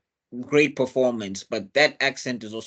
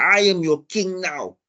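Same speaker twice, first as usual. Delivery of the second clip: louder, slower, higher kingly declaration; mock regal command; 7 semitones higher, 5 dB louder than usual. T'Challa tells Zuri he rules now, slow and louder. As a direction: plant your feet and claim the throne. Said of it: "He's like".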